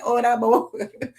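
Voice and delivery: slow Nigerian-style "Oh, Dabo"; Nigerian-style greeting. Shown as a demonstration. Host greeting a Nigerian viewer, slow Nigerian-style greeting. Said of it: "so I'm saying".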